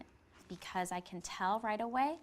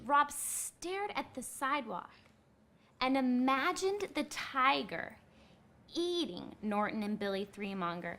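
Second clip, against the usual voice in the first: reading aloud; 2 semitones higher than usual. A narrator's reading. Teacher reading chapter eleven to the class, read-aloud. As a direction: read the passage as textual evidence.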